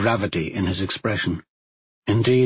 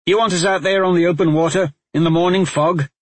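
arguing; 7 semitones higher, 4 dB louder, faster than usual. Acted. Talmadge argues.

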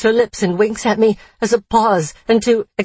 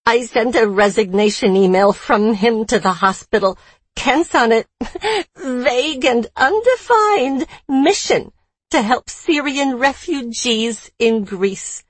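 breathless rant; 4 semitones higher than usual. Acted. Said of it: "finishes in a breathless rant".

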